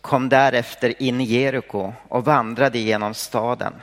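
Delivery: measured, even Bible reading voice; solemn reading of Zacchaeus' story; scripture reading. Acted. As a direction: read the Gospel aloud to the congregation. Scripture reading before the sermon.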